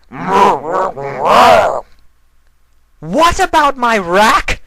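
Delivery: very high, loud, gleeful shout; happy exclamation. Acted. Sombra mishearing, shouting happily and high. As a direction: blurt it out delighted. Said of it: "Sombra happily exclaimed".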